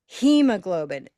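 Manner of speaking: hemoglobin with the first syllable, he, hit hard; a clear, loud model of hemoglobin; stress on HE. Shown as a demonstration. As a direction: punch the he in hemoglobin. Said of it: "where's the stress?".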